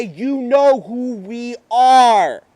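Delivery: hissing menace swelling to a triumphant cry; demon chorus. Acted. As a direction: speak as the many demons, rising to a roar. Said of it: "I can hear them say".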